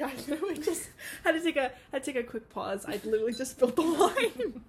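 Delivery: giggly apology through laughter; laughing. Real, not acted. Laughing after spilling wine.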